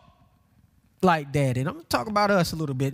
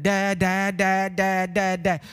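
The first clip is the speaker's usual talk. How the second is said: lightly imitated baby babble; a hint of a baby chanting syllables; babbling baby; slower than usual. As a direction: repeat it evenly like a babbling baby. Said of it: "But the baby that".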